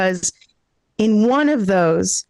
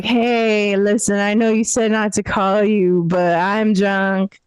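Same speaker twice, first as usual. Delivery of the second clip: put-on drunk caller. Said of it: "call your friend and be like".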